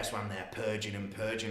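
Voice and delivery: ordinary talk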